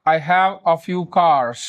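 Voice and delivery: very slow, every word spaced out; teacher models it slowly for learners to repeat; "I have a few cars" drawn out word by word; slow model sentence. Shown as a demonstration. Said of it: "पूरा sentence बोल दीजिएगा".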